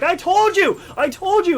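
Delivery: high, loud mock yell of a sister; high-pitched, worked-up retold shout; freaking out. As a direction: imitate a sister's loud I-told-you freak-out. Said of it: "my sister and my mom are freaking out".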